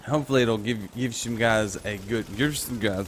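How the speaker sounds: tipsy, losing the thread. Real, not acted. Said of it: "I'm so drunk right now".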